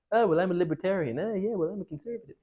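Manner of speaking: lightly mock someone stating their label; mock ideologue. Mimicking people stating their ideologies.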